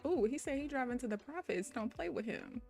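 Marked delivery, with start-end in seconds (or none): none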